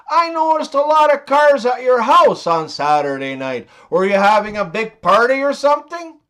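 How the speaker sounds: lightly voiced country boy asking around. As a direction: play a curious country neighbour. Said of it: "Two country boys were chatting".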